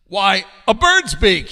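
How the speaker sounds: loud, high, drawn-out exclamation; exclaimed answer. Acted. King answers last riddle, exclaiming loudly. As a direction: exclaim it like a delighted discovery.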